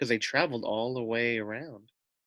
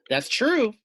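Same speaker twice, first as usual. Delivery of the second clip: lamb's voice; 13 semitones higher, 7 dB louder than usual. Acted. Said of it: "said the lamb calmly".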